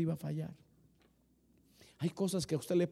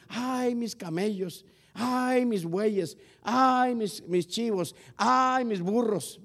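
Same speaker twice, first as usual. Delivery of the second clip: slow, drawn-out mock wailing over each animal; mock lament; 5 semitones higher, much slower than usual. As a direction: parody a man moaning over his losses. Mocking a wailing Job. (lamento burlón y exagerado)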